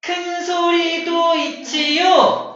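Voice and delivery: loud. Shown as a demonstration. Teacher demos a loud sound, loud and slow. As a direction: boom it out big. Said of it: "음량이 커지기도 하고 작아지기도".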